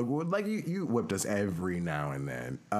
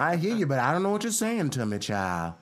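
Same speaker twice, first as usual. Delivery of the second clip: higher-pitched phone impression; relative's catchphrase; 8 semitones higher, 4 dB louder than usual. Imitating a relative's phone talk, high and exasperated.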